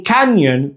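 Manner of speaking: canyon with n and y in separate syllables; split N and Y. Shown as a demonstration. Teacher showing learners where canyon divides, split N and Y. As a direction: say canyon slowly, n closing the first syllable. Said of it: "part of two separate syllables".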